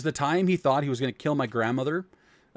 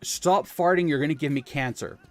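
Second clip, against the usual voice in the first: scolding grandma. Retold or imitated. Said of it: "had decided to say".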